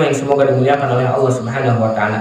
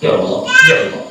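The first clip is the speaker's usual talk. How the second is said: gentle whisper; faster than usual. Shown as a demonstration. Preacher shows Zakaria's hushed, humble prayer. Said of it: "berdoa dengan lemah lembut".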